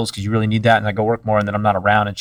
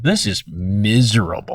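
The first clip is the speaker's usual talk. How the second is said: slow, understated misery; a touch of weary anguish, retold slowly; retold emotional pain; 3 semitones lower, 4 dB quieter, slower than usual. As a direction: recount a pained prayer, drawn out. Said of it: "just emotional pain of going".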